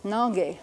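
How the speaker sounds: "nange" with a nasal a, nahn-gay; "nange" said carefully; Ponca word. Shown as a demonstration. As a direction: say "nange" slowly, vowel through the nose. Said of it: "they would write this something like this".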